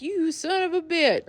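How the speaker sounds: high squeaky mock curse; mock insult. Rich boy cursing at T Y, high squeaky mock anger. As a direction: toss it off like a whiny rich kid. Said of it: "the guy's like".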